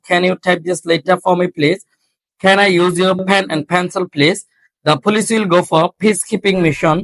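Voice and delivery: all the drill lines run together in one go; rapid recitation. Shown as a demonstration. Teacher reciting all ten drills in a row for students. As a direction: rattle off the whole list in a single flow. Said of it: "যেমন এভাবে যদি বলি".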